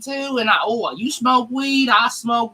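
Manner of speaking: hammed-up desperate relating; mock eager white guy. Parodying someone trying to relate.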